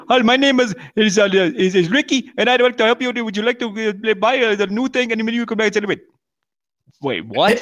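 mock telemarketer. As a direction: play a nervous caller stumbling over his script. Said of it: "He was like".

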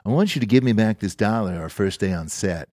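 lightly voiced mellow dude; a hint of easygoing money man, fairly even; laid-back financier. Financier handing over a dollar in the parking lot, lightly imitated laid-back voice. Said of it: "he talked like that".

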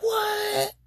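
high whispered what; whispered disbelief; stunned whisper. Retold or imitated. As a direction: breathe it out in shock. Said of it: "And I was like".

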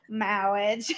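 "marriage" said as "mawwiage", r turned to w; Pope's "mawwiage". Retold or imitated. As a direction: stretch "marriage" into a lisping "mawwiage". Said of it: "Every time I hear it".

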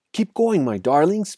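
high, urgent urging, lightly acted panting; panted. A narrator's reading. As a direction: urge the family on, short of breath. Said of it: "panted Mister Fox".

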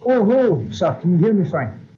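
muddled, muffled phone line; caller's voice as if underwater; underwater gurgling voice. Real, not acted. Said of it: "You sound like you're completely underwater".

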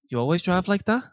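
imitated old man with a European accent. Old man challenging a driver in the lift, European accent. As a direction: put on a light, vaguely European accent. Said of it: "some kind of European accent".

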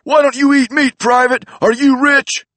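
high, loud, raspy-free macho wrestler bark; Chicano macho Randy Savage. Retold or imitated. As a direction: yell like a macho wrestler drill sergeant. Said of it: "He talked like a Chicano macho man Randy Savage".

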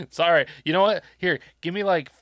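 bright fake-service voice to a customer; mock employee. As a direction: play the chirpy helpful worker.

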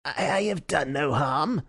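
shrinking, mildly frightened culprit; uneasy. A narrator's reading. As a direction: plead innocence nervously. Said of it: "Oldacre gave an uneasy laugh, shrinking back".

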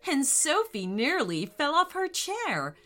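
gentle bedtime story voice; storytelling narration. A narrator's reading. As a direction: read it like a children's story. Reads story to children.

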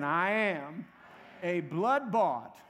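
slow call-and-response confession, pauses between phrases; firm declaration. Shown as a demonstration. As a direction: lead them firmly, phrase by phrase. Second call to repeat confession.

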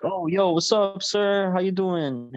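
high, fake-casual greeting; acting chill. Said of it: "we're acting chill".

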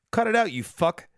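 jokey pretend reprimand; mock scolding. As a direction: scold a buddy, hammed up. Acting Goku scolding a friend.

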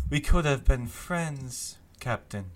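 wistful Loriana. Acted. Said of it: "and says".

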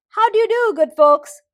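high, loud eager greeting; excited hare greeting. Acted. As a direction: burst out with a hare's excitement.

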